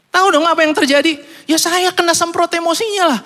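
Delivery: excited comic punchline. Real, not acted. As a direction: build it up for a laugh.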